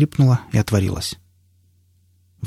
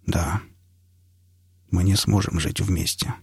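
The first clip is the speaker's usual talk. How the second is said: low, soft, heavy-hearted reply; subdued, regretful breakup voice; guilty admission; 3 semitones lower, 5 dB quieter than usual. A narrator's reading. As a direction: admit it quietly, pitch dropped. Виновато сообщает о разрыве.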